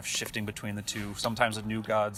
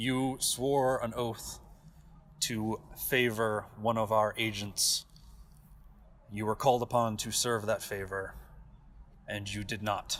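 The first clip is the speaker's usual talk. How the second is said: accusing, echoing, reverberating divine judge god voice. Voicing a god on a throne, accusing a character of breaking an oath: very deep, echoey god voice. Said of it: "It is fairly obvious that this is someone. Yep. Seated before you, the god. / and a huge stone throne. Seated upon is a giant metal-clad soldier. Okay. Comparatively, he stands 4 times your height. / A".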